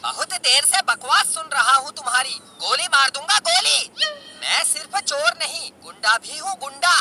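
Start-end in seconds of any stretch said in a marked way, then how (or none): 2.6-3.9 playful bully voice; father pretending to be a robber; mock thief threat. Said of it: "मैं चोर हूँ".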